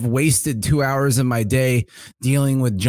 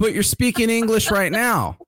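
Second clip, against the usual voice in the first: laughing; 9 semitones higher than usual. Real, not acted. Retelling absurd call, laughing.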